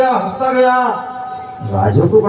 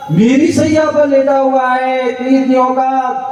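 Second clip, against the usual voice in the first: higher, indignant outrage at the servant; furious king; 7 semitones higher than usual. Acted. King finds servant on his bed, in high furious outrage. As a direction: rage like an insulted king, voice pitched up. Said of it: "आग बगुला हो गया".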